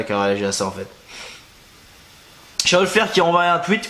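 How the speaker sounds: normal talking voice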